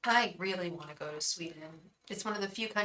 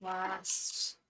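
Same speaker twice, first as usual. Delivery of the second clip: typing aloud; 10 dB quieter, much slower than usual. Real, not acted. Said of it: "I'm also typing".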